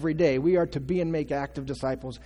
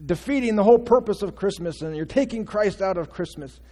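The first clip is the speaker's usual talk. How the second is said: mock outrage; 3 semitones higher, 3 dB louder than usual. Preacher mimicking Christians upset over Xmas, mock outrage. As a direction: imitate offended churchgoers with mild outrage. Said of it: "they were just outraged".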